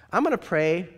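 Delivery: loud, high declaration; old woman vowing to pray for his arrest; emphatic vow. Retold or imitated. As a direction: proclaim it firmly. Doris vows to pray.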